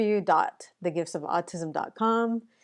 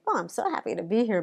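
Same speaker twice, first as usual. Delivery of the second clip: pretend happy; 3 semitones higher, faster than usual. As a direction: lightly fake a pleased greeting. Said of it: "if I would pretend and be like".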